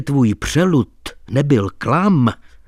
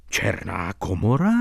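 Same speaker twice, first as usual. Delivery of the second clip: Černá komora as a low rising question; Černá komora echoed with a rising, questioning end; surprised cry; 5 semitones lower, 7 dB quieter than usual. A narrator's reading. Doctor and narrator echo the title in surprise. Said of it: "vykřikli jsme oba".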